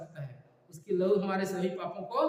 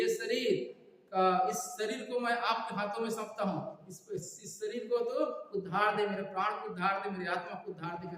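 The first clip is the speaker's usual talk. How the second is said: raised model prayer, easing towards the end; calling on God; 3 semitones higher than usual. Shown as a demonstration. Preacher models handing body and soul to God, calling on God. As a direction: plead phrase by phrase for the people to repeat. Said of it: "करके पुकारना है".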